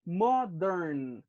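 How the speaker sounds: "modern" sounded out in two drawn-out syllables; teacher showing the two beats of "modern"; two clear syllables. Shown as a demonstration. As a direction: stretch "modern" so both syllables count. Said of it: "two syllables".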